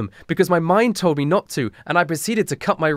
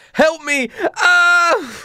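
high, mock-agonized scream; hammed-up cry for help; 14 semitones higher, 4 dB louder, much slower than usual. Daniel falls to the floor, hammed-up screaming. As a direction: wail for help with overdone drama.

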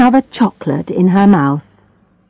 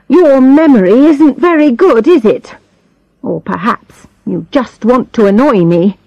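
high, sneering rebuke; scornful; 6 semitones higher than usual. Acted. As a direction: needle him with scorn. Invalid scolding.

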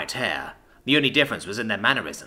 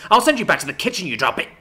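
raised, heated retort; fired up; 8 semitones higher, 5 dB louder, faster than usual. A narrator's reading. Jack retorts to the drow's threat, fired up. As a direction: fire back hotly at an opponent. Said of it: "Jack fired up".

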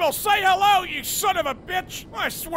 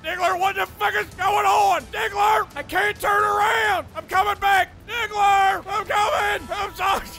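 panicked shouting; 4 semitones higher than usual. Real, not acted. Gamer losing control of warplane, panicked shouting to Diggler. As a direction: shout to your buddy while losing control.

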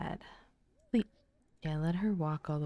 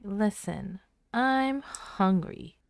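voicing the child; 2 semitones higher, slower than usual. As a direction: stretch it out like a hungry toddler. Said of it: "She's like".

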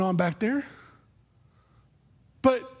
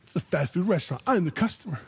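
hammed-up outraged complaint, pitched up; mock indignant customer; 3 semitones higher, faster than usual. Pastor mocking himself as angry drive-thru customer, hammed-up outrage. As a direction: play the entitled customer, half laughing. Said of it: "And I could have been like".

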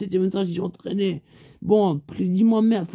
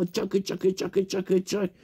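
quick repeated "tchac" sound effect; imitated rhythmic action; 4 dB quieter, slower than usual. Friend showing how they did it, rhythmic imitated noise. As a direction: chop out a steady run of tchacs. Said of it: "comme ça".

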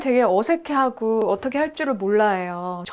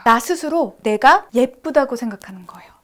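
ordinary talk

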